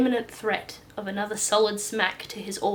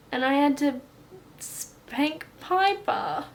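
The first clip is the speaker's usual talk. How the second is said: put-on high, slow childlike confession; little boy voice; 6 semitones higher, 4 dB louder, slower than usual. Regressed boy telling the doctor, high and slow. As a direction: say it like a small child.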